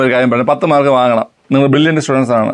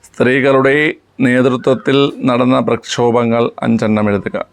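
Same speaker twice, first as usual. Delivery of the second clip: slow, low-pitched, word-by-word dictation; 5 semitones lower, slower than usual. Real, not acted. Teacher repeating a test question for pupils to write, slow dictation. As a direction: space the words out for writing, pitched low.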